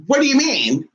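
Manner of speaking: high, imitated baffled question; mock bewilderment. Cousin questions the spiritualist's claim, mock bewilderment. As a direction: play up a cousin's confusion.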